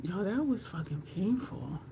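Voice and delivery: hushed, close to crying, real; barely holding back tears. Real, not acted. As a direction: near tears after the pain. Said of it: "I almost cried".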